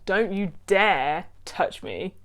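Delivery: slow, deliberate mock warning with weight on dare; hammed-up don't-you-dare; mock threat. To her partner, a slow mock threat. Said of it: "Did you like my impression?".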